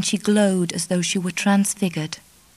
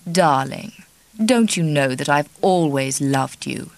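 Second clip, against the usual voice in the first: lower, smooth seducer; deep charming voice; 4 semitones lower than usual. Acted. Charlie soothing Kitty, lower and charming. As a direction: woo her, low and charming. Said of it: "in his deep, charming voice".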